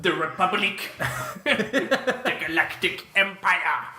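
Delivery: laughing while talking. Pretend. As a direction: giggle through the words. Laughing through emperor lines.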